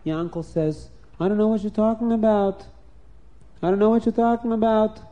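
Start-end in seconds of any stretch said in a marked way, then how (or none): 1.2-2.6 higher, wide-eyed denial; innocent denial. Acted. Yankel denies the theft. 3.6-5.0 higher and insistent; insistent denial. Acted. Yankel repeats the denial.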